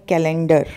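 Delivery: कैलेंडर said the common wrong way; common mispronunciation. Shown as a demonstration. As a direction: say कैलेंडर as most people wrongly do. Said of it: "गलत ही बोलते हैं". (कैलेंडर का आम गलत उच्चारण)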